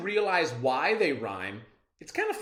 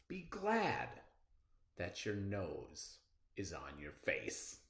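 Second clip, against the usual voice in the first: measured read-aloud poem voice; expressive classroom poem reading; slower than usual. Acted. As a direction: read it like a storybook poem for kids. Teacher reads poem aloud.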